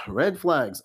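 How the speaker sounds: tired head-shake red flags; sighed repeat. Real, not acted. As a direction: drop back down, weary and knowing.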